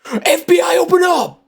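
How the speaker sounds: high yelled cop raid call; grave federal agent. Pretend. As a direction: bang on the door and yell. Mock police raid call.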